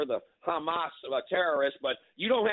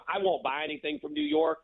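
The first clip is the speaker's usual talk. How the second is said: defiant vow; 14 semitones higher than usual. Real, not acted. Caller declaring a boycott.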